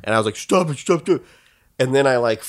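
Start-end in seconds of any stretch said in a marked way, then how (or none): 0.4-1.2 put-on childish plea. Kid begging bully to stop.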